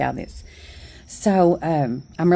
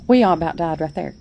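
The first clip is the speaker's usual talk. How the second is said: real laughter while telling, a bit quicker; laughing; faster than usual. Real, not acted. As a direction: laugh through the line, still amused. Recalling the funny punchline.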